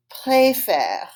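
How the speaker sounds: "Préfère" with ay first, then an open eh; two distinct vowels. Shown as a demonstration. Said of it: "they're two different sounds".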